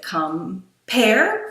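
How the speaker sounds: "come pair" split into two slow, separate beats; stress demo on "come pair". Shown as a demonstration. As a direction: sound out "come pair" syllable by syllable. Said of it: "I'm not even saying it right".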